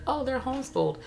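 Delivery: high-pitched, pointed "Oh"; mock loaded reveal. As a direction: imitate a show making "homeschooled" sound odd. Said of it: "whenever shows are like".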